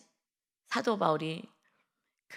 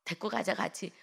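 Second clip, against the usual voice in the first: pleading; 3 semitones higher, 6 dB quieter than usual. Acted. Barnabas begs Paul to take Mark along, pleading softly. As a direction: plead gently for one more chance. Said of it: "바나바가".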